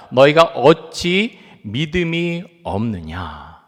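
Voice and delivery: Jesus rebuking the disciples, slow and firm; slow rebuke. Retold or imitated. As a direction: stretch each word as a solemn reproach. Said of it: "이어서 이렇게 말씀합니다".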